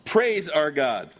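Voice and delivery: slow, emphatic imperative; commanding. Acted. Preacher repeating the command from the throne, commanding. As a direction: draw it out as an order. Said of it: "It's an imperative".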